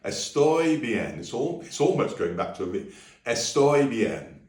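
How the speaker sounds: Estoy bien, soft B nearly a V. Shown as a demonstration. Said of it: "don't make the B too hard".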